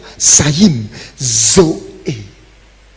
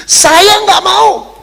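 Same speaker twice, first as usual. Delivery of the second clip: slow, loud and much higher refusal; firm refusal; 10 dB louder, much slower than usual. Retold or imitated. Quoting the sick pastor who refused a special hospital bed, loud slow refusal. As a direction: drag out each word, refusing outright. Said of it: "katanya Pak Harleman".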